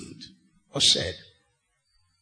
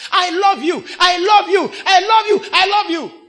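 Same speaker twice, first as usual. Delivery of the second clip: declaration of love; 7 semitones higher, 6 dB louder than usual. Retold or imitated. Someone in church declares love.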